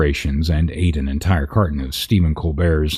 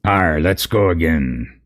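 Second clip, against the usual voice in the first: lightly voiced pirate, arr; a hint of a gruff pirate. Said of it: "I'll just do my pirate voice again".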